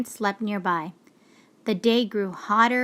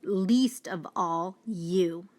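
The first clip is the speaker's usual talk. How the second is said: hopeless lion; 3 semitones lower, slower than usual. Acted. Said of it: "he said".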